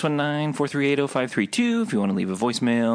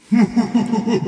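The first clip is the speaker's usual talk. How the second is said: evil laugh; 11 semitones higher, 6 dB louder than usual. Retold or imitated. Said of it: "and I would go".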